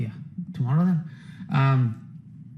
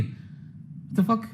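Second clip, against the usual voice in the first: hushed what the fuck; 6 semitones higher, 8 dB quieter, much slower than usual. Real, not acted. Mock disbelief at DMs.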